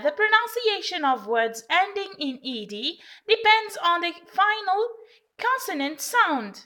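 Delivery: slow, deliberate dictation; measured classroom dictation; slow rule reading. Shown as a demonstration. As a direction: spell the rule out slowly for learners. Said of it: "teacher reading rule slowly".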